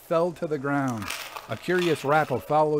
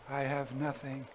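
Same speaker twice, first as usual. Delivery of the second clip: soft, subdued admission; low voice; 8 dB quieter than usual. A narrator's reading. Son admits to his father he has nothing, quietly. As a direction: answer quietly, well under normal volume. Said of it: "in a low voice".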